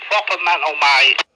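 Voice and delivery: attempted southern English accent, badly done. Radio operator teasing a southern-accented caller, mock southern accent. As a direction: have a poor go at a southern accent. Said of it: "Can't do that accent at all".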